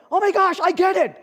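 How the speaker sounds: high, loud "oh my gosh"; imitating a thrilled outburst; excited scream. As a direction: relive the wife's sudden realization. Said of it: "she literally screamed".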